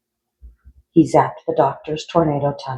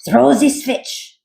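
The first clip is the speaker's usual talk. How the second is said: high, slow, theatrical cry of triumph; mad doctor cry; 10 semitones higher, 4 dB louder, slower than usual. Acted. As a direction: yell it like a mad scientist at the lever. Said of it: "Doctor Franken cried".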